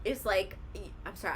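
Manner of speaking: small burp mid-sentence; burping after beer. Real, not acted. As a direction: talk through a burp. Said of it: "I'm burping 'cause I'm".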